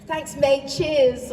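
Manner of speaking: mimicked English-accented thanks; self-mocking British accent. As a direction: echo yourself sounding English. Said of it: "It was more English".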